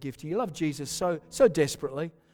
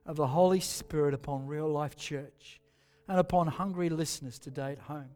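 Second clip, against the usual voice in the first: prayer. Real, not acted. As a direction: pray gently over them. Leads a soft prayer.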